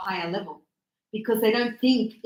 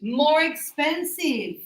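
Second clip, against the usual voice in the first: slow model reading; 3 semitones higher, slower than usual. Shown as a demonstration. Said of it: "the opposite is".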